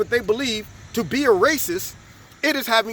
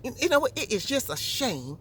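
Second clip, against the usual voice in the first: a hint of Southern accent, softer; light Southern accent; 4 dB quieter than usual. Older white lady in the store complaining, light Southern accent. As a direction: lightly imitate an old Southern lady's accent. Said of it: "she had this little Southern accent".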